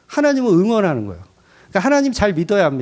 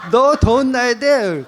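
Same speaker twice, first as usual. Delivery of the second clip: mock scolding; 5 semitones higher, slower than usual. Daughter scolds cat slowly.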